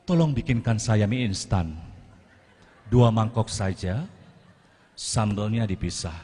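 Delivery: hammed-up sweet order to the maid; cute-acting. Shown as a demonstration. Speaker mocks a cutesy request to the housemaid. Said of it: "so imut ke asisten rumah tangga".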